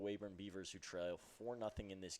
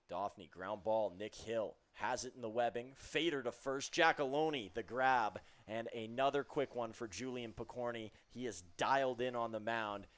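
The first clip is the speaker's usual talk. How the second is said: rising, louder excited call; excited play-by-play; 3 semitones higher, 5 dB louder than usual. Real, not acted. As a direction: build the call up to the grab. Live call of a groundout.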